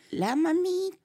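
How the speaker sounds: high, drawn-out mock lament; mourner's lament. The dead woman's neighbour starts up at the funeral, mock lament. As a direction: imitate a neighbour keening at a funeral. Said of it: "empieza a decir".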